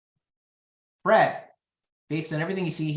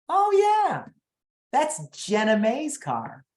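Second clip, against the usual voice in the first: dawning realization; 8 semitones higher, slower than usual. Retold or imitated. Recognizes rival's car in driveway.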